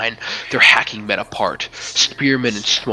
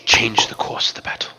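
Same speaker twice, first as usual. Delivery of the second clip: the mystic Meningian bestowing power, hushed; mystic whisper. Acted. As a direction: whisper the gift into his heart. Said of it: "She goes".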